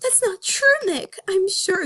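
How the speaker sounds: high, earnest bunny voice; Judy voice. Acted. Judy answers Nick.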